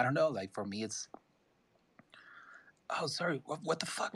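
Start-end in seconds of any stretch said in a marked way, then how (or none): 3.0-4.1 high, cracking voice, close to tears; real emotion catching the throat; voice breaking. Real, not acted. Artist moved by friends buying his work, voice breaking. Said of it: "my voice is breaking".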